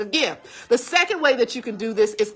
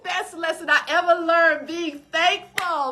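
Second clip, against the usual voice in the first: choked up; 6 semitones higher than usual. Real, not acted. Moved, laughing through emotion.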